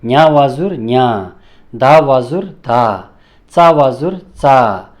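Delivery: slow, measured syllables, one cluster at a time; spelling drill. Shown as a demonstration. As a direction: recite each cluster clearly for learners. Teacher recites letter drill. (धीमा, स्पष्ट वर्ण-उच्चारण अभ्यास)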